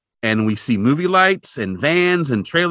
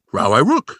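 lightly voiced garbled cartoon-dog talk; garbled r-words, a touch louder; mock dog-speak; 4 dB louder than usual. Podcaster imitating Scooby retelling a cartoon, garbled dog voice.

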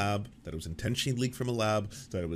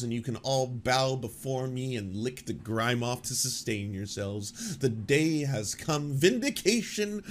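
arrogant gloating; slower than usual. Retold or imitated. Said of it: "he's got such arrogance".

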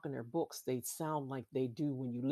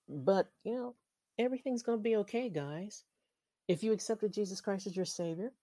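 higher, louder, quick burst of encouragement; upbeat reassurance; 7 semitones higher, 4 dB louder than usual. Real, not acted. Cheering on podcast listeners with a bright, quick lift.

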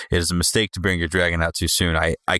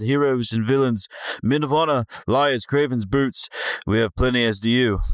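higher-pitched, lilting character voice for a quote; attempted John voice; 4 semitones higher than usual. Podcast host reading a listener email, in an attempted John voice. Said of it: "That was a good Val voice".

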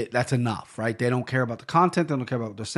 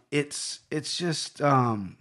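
trailing off; 3 dB quieter, much slower than usual. Real, not acted. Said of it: "now I lost my train of thought".

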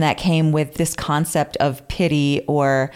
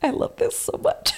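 breathy whispered delight; whispered aside; 6 dB quieter than usual. Real, not acted. Host whispering her glee mid-reading. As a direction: whisper it, barely able to contain yourself.

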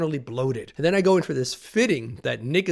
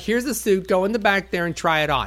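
lispy wardrobe guy; 6 semitones higher, 4 dB louder than usual. Retold or imitated. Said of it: "It's like".

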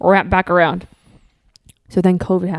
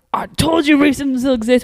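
smug whisper; 6 semitones higher than usual. Retold or imitated. Whispered I-told-you-so.

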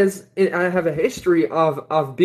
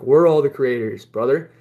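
composed, lower-pitched statement; calm retelling; 4 semitones lower than usual. Retold or imitated. Speaker tells a preaching stranger "brother", calmly. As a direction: answer calmly, settling lower. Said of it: "I just said to him calmly".

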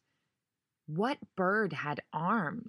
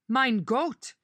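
sudden, higher and louder gasp of surprise; startled German exclamation; 7 semitones higher, 5 dB louder than usual. Acted. Doctor spotting Jane in the lobby, startled outburst. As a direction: blurt it out in shock, in German.

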